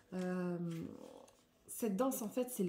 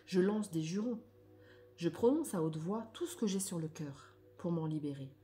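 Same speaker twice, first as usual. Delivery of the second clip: emphatic read-aloud; 2 semitones higher, 3 dB louder than usual. Acted. Reading a text on releasing anger to listeners, emphatic declamation. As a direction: declaim each phrase with energy, pausing between.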